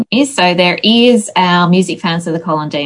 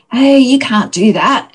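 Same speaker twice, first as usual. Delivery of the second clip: higher-pitched mock rebuke; retold warning; 6 semitones higher, 3 dB louder than usual. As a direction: act out a co-worker stepping in. Co-worker's warning acted out in anecdote.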